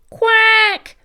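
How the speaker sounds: high, loud quacking squawk; duck squawk. Acted. Duck squawking a greeting from the field, high quack. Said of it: "squawked Duck".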